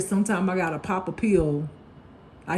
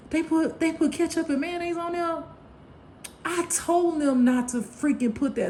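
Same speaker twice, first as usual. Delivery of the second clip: mock whiny complaint; 10 semitones higher than usual. Mimicking partner complaining about order.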